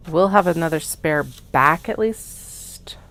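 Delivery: slow whisper to herself. Real, not acted. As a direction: whisper it slowly, unvoiced. Whispers while cutting.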